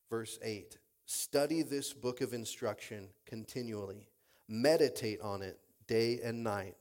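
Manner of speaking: measured, deliberate Bible reading; scripture reading. Acted. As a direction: read scripture with weight on key phrases. Reads scripture aloud to congregation.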